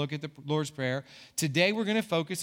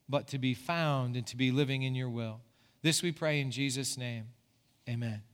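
prayer; 2 semitones lower than usual. Acted. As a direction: pray over the congregation gently. Pastor leads congregation in prayer.

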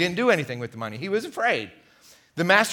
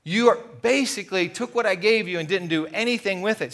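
stern king; 4 semitones higher than usual. Acted. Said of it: "So evil is what wicked means".

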